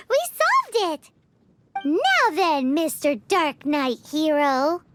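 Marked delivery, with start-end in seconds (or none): 1.8-4.8 teasing. Acted. Paimon teases Diluc with nickname.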